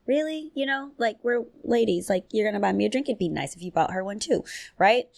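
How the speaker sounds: high, fast, sassy disbelief; mock-indignant at the guy; incredulous sass. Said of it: "I'm like".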